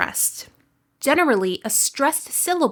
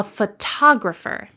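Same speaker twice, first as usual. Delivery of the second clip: "photographer" stressed on TOG; "photographer" with a weak first syllable, strong second. Shown as a demonstration. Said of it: "The second syllable is stressed".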